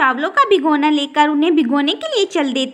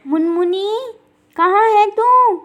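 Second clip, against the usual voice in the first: calling out; 4 semitones higher than usual. Acted. Mother calling for her daughter.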